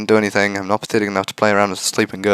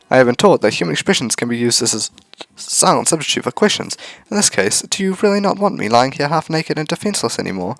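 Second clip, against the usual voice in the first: put-on robot girl voice; 4 semitones higher than usual.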